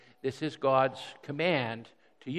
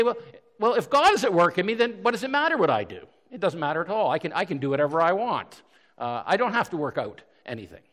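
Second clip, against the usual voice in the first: raised, higher mock voice of a careless believer; 4 semitones higher, 4 dB louder than usual. Preacher mocks a careless believer's excuse, higher and louder. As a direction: lightly voice the smug excuse-maker. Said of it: "the second error is to say".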